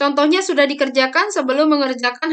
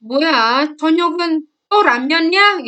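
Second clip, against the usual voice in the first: higher, quicker exasperated question; mock scolding; 3 semitones higher, 4 dB louder than usual. Older sibling questioning the younger about dinner, mock scolding. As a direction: play a nagging older sibling.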